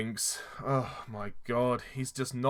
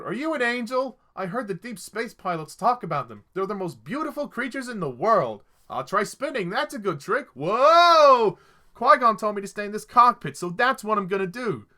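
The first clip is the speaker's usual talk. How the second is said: put-on high, excited kid voice; squeaky mock child quoting the film; mock young Anakin; 7 semitones higher, 6 dB louder than usual. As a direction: ham up a gushing little boy.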